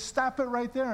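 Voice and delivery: gentle but insistent stop; firm interruption. Retold or imitated. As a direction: cut in firmly, like a gentle mentor. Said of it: "he was a gentle guy, but".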